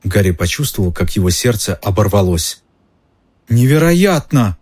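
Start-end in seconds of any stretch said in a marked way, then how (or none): 3.5-4.6 high, slow gasp of disbelief; cry of disbelief. A narrator's reading. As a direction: she can't believe her eyes. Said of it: "вскрикнула Гермиона". (изумлённый вскрик, выше и медленнее)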